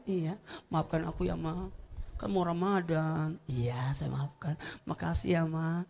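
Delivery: hushed child's apology, barely voiced; soft whisper. Child whispering sorry to mama softly.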